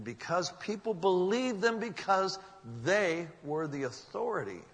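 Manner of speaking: preacher stressing with rising intensity; emphatic preaching. Real, not acted. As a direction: build to the key word in sermon style. Preacher drives home the lesson.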